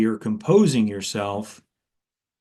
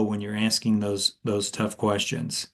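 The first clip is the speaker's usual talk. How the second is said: lower voice; 3 semitones lower, 4 dB quieter than usual. Shown as a demonstration. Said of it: "lower your voice a little bit like this".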